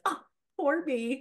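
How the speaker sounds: slow, whiny "poor me"; milk the pity in a put-on voice; mock self-pity. Guest mocking the victim mindset in a slow, self-pitying mock voice. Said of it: "our mind loves to get to that place of".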